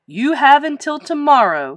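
loud, high angry ultimatum; outraged coach laying down the law; upset cry. A narrator's reading. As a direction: cry out the order, flustered. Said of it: "he cried".

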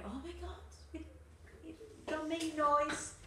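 high, hushed squeak of panic; hushed alarm. Retold or imitated. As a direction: keep it tiny so the baby sleeps on. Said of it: "when the baby was sleeping".

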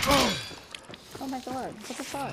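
drawn-out stunned disbelief, high; shocked. Real, not acted. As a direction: slowly gasp it in shock. Sudden shock under fire.

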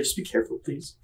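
soft, whispered plea to be careful; whispered warning. Retold or imitated. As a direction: whisper it like a worried friend. Friend cautiously warning, whispered.

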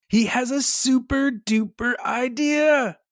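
high, gleeful storytelling; thrilled, high-pitched reveal; excited narration. A narrator's reading. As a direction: announce it like a brilliant discovery. Narrator voices sudden bright idea.

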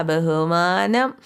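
ബഹുമാനം stretched very slowly, low, with a mocking rise at the end; slow mocking ബഹുമാനം with a rising tail; sarcastic drawl. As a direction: drag out ബഹുമാനം as a sneer.

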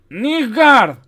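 shrill, loud soldier's cry; high-pitched alarm shout; high, trembling shout. A narrator's reading. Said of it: "con una voz aguda y temblorosa".

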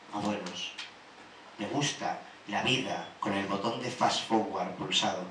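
measured poetry reading with pauses between lines; even, deliberate spoken-word delivery; poem recital. Acted. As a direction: recite a list of likes and dislikes, line by line.

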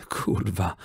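soft groaned curse. A narrator's reading. Czarny groans quietly over the dead cook. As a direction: moan the word quietly. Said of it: "jęknął".

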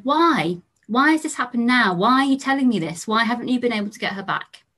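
a hint of the son's anger, pressing each why; angry questions. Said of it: "I could see he was clearly angry".

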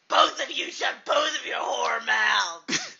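loud put-on voice yelling; mock shout. A third voice yelling at two quarrellers. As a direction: silence both of them.

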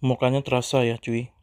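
talking between bites of cake; chewing while talking. Real, not acted. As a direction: mouth partly full of cake. Seen 1: Bites mocha cake before, cheeks full, chewing while talking.

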